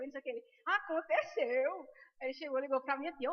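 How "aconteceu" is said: "Aconteceu" drawn out slowly and forcefully; emphatic insistence. Retold or imitated. Doctor insisting to doubting colleagues, "Aconteceu" drawn out emphatically. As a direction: stretch "Aconteceu" as a firm rebuttal.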